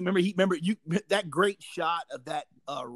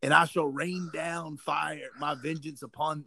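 mild biblical quote; 3 dB quieter, slower than usual. Retold or imitated. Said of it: "biblical quote".

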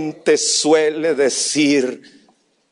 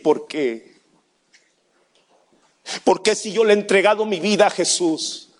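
crying out why; 13 semitones higher, 3 dB louder than usual. Retold or imitated. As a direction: let the grief rise into a shout. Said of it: "mientras lloraba". (de llanto contenido a grito angustiado)

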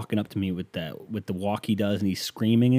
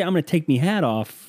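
higher-pitched mock Irish accent; 6 semitones higher than usual. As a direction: mimic the Irish threat teasingly. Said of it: "You got that silly little accent".

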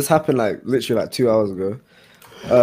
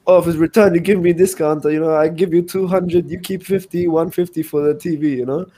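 haggling customer; 6 semitones higher than usual. Retold or imitated. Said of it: "And he's like".

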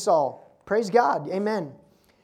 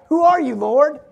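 Saul calls out, higher and louder; urgent cry; 6 semitones higher, 8 dB louder than usual. Acted. Saul on the ground, crying out to the heavenly voice. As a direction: shout it up at the voice in the light.

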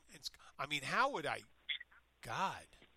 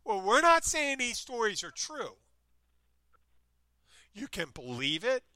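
higher, louder mock host voice; mock announcer disclaimer; 8 semitones higher, 7 dB louder than usual. A man parodies Ripley's disclaimer in a raised, louder showman voice. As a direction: play the sly showman covering himself.

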